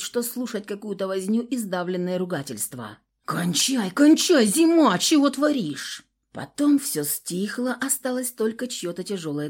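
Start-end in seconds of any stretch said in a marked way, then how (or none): 3.2-6.1 higher, louder urgent call to stop; pulling a friend off a fight, loud and urgent; urgent shout. A narrator's reading. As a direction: yell at your friend to quit it. Friend pulls attacker off.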